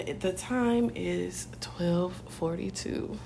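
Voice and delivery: slow, even news anchor read; newscaster voice. Acted. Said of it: "Why do you sound like a newscaster".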